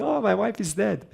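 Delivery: high, bubbly mock cheer; giddy delight. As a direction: ask it as if it were great news. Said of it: "he's dancing".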